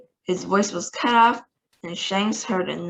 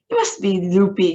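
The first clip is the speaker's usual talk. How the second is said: declaring; 6 dB louder than usual. Acted. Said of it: "declared the President".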